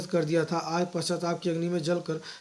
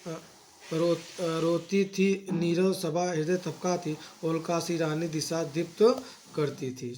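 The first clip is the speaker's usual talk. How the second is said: measured verse reading, some lines slowed; poem recitation. Acted. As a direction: recite each line with a poet's cadence. (लयबद्ध कविता पाठ, कुछ पंक्तियाँ धीमी)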